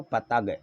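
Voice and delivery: पतंग said as pa-tag; पतंग with no nasal; wrong, nasal missing. Shown as a demonstration. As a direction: drop the ng sound from पतंग. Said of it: "ये गलत था".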